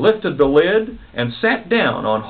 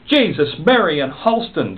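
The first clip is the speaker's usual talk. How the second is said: put-on Detroit accent; 4 semitones higher than usual. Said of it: "delivered in a Detroit accent".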